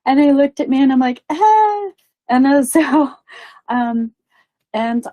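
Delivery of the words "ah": high, loud "ah"; startled cry. Retold or imitated. Medium faced by the weightlifter, startled cry. Nervous outcry as he looks at her.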